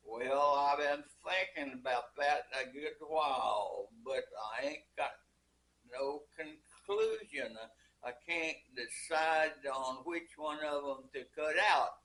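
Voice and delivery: put-on easygoing rancher talk in a Western accent; cowboy accent. Old cowboy answering the mother in his cowboy accent. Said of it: "in his cowboy accent".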